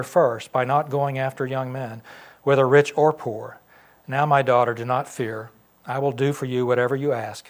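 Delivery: projected, measured Bible reading; scripture reading. Acted. Pastor reads Boaz's blessing on Ruth, projected scripture reading. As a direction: read Boaz's reply out firmly to the room.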